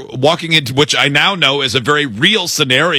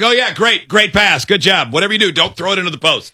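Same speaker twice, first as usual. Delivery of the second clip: higher-pitched, mock-excited gaming chatter; excited gamer self-talk; 6 semitones higher than usual. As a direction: cheer on a teammate, then rush the warning. Talking to oneself while gaming.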